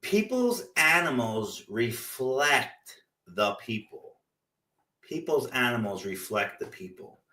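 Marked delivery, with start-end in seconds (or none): 0.0-4.1 slow, deliberate line that fades to a whisper at the end; slow and pointed. Shown as a demonstration. Telling listeners pets mirror owners, slow and pointed. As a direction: let the truth sink in slowly. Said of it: "but it's true".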